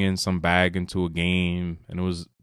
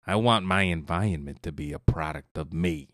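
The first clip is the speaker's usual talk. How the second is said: lightly voiced Jack Nicholson, slightly low; a hint of a menacing mob boss; 3 semitones lower than usual. Friend doing his best Jack Nicholson for the podcast, lightly done. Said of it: "my best Jack Nicholson impersonation".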